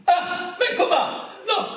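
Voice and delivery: very high, breathy mock outcry; shocked disbelief. Umberto hearing Sean Connery is cast, high shocked outcry. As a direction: squeak it out in horrified disbelief.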